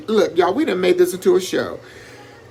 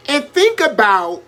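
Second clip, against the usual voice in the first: preaching cadence. Acted.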